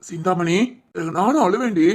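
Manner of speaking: pleading on the edge of tears; tearful brotherly plea; close to crying. Acted. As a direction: comfort her while starting to cry. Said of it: "நீயும் சேர்ந்து அழுதுட்டு இருக்க?".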